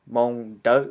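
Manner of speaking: "Hmong Dao" with a plain d in "Dao"; white dialect pronunciation. Shown as a demonstration. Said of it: "someone who speaks the white dialect".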